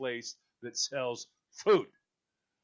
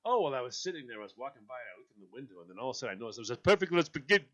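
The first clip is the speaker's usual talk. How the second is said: mock Italian chef; 5 dB louder, much faster than usual. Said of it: "So I always go".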